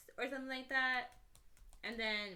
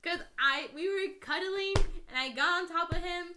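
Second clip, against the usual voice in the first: high, loud, giggly storytelling; wife giggling through the cuddling story; laughing while telling; 5 semitones higher, 8 dB louder than usual. Real, not acted. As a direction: tell it while barely holding in laughter.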